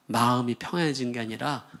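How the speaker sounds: plain reading voice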